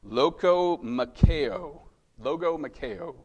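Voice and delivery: logomacheo sounded out slowly, loh-go-ma-KAY-oh; careful Greek pronunciation. Shown as a demonstration. Preacher teaching the congregation a Greek word, slow and careful. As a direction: spell out logomacheo syllable by syllable, then say it through once. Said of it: "which means war of words".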